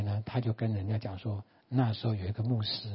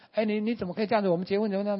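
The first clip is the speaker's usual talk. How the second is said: higher-pitched, mildly indignant protest; mock angry wife; 8 semitones higher, much faster than usual. Wife confronting her straying husband, mildly angry. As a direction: imitate an upset wife, voice raised in pitch. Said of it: "太太非常生气".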